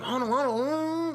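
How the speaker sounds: very high, loud scramble; frantic hold on. Retold or imitated. Naked older dudes bolting from the cops, very high frantic calls. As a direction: yell it while running off.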